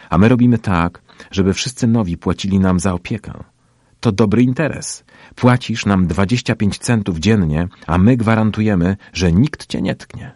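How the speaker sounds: put-on pushy tough-boy spiel; bullying sales pitch. A narrator's reading. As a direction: lay down the racket's terms. Bully explains protection racket.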